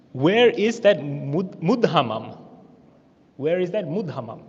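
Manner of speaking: slow, loud mock shout; imitating an angry woman's scornful demand; retold yelling. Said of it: "starts yelling at him".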